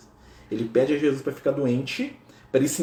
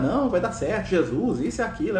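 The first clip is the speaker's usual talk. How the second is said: encouraging pep talk, higher pitched; cheering someone up; 6 semitones higher than usual. Retold or imitated. Francis trying to cheer a leper, encouraging. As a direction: lift his spirits, keep it airy. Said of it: "a tentar animar".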